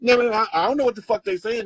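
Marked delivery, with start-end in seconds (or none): 0.0-0.3 put-on a light babbling toddler voice; mildly voiced baby gibberish; baby talk. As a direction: babble like a little baby on the phone. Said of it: "They talking baby talk".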